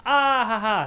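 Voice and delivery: high, loud forced laughing; fake laughter. Mocking fake movie laughter.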